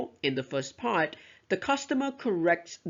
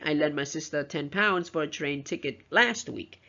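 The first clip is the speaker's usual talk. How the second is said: LAST lifted after an even run, then WEEK falls; stress on LAST WEEK. Shown as a demonstration. Teacher emphasizes when the money was lent, stressing "last week". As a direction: land firmly on "last week". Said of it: "stress on the very last two words".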